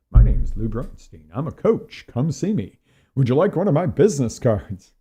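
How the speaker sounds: loud mock self-promotion; hammed-up business-card pitch; sarcastic sales pitch. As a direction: plug yourself with tongue in cheek. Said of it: "I'm being a sarcastic ass".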